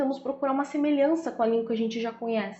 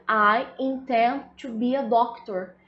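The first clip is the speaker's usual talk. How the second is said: slow correct example; slower than usual. Shown as a demonstration. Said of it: "O certo seria".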